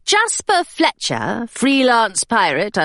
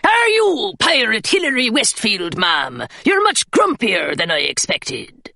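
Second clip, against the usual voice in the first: rough pirate. Acted. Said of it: "cried the pirate again".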